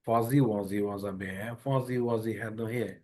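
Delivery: Fuzzy Wuzzy said slowly, buzzing each z; slow tongue twister. Shown as a demonstration. Teacher slowly models the z tongue twister. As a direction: read the rhyme slowly, z humming. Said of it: "tongue twister আছে".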